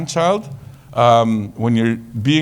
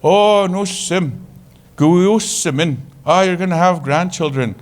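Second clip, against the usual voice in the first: elder's blessing; 4 semitones higher than usual. Retold or imitated. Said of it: "they said".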